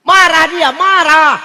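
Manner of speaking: loud laugh through the words; laughing loudly. Real, not acted. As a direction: burst out laughing as you say it. Laughing while telling wife's anger.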